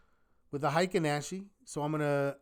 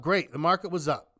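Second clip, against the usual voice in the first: dry, sarcastic acknowledgement; unimpressed echo. Real, not acted. Answering the excited crowd about the market, unimpressed. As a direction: brush the cheer off in your own register. Own dismissive echo of the cheer.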